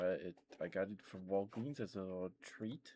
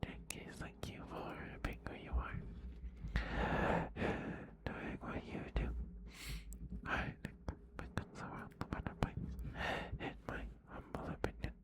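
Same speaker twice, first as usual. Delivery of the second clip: whispering; 8 semitones lower than usual. Real, not acted. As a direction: whisper it gently, close in. Whispered talk to pet.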